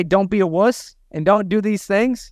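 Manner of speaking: lightly yelling at someone's staff; mock yell. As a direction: bark the order at the team, half in jest. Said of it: "I can yell at your team".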